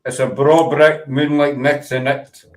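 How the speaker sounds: slow Scottish tongue-twister; broad Scottish accent. Shown as a demonstration. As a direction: demonstrate broad Scottish with rolled R's. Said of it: "You gotta roll the R's".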